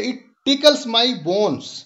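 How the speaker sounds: slow recitation of "It tickles my bones"; measured, unhurried poem reading; poem recital. Shown as a demonstration. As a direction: savour each line of the poem for the class. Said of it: "mention किया है कि".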